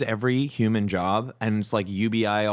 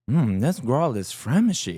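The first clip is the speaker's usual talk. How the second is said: Sim voice; slower than usual. Retold or imitated. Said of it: "your Sim would be eating food and they'd be like".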